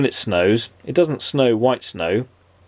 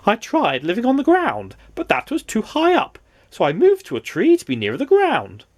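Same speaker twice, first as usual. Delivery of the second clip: 1 silly nonsense voice; 11 semitones higher than usual. Acted. Mister Nonsense character voice.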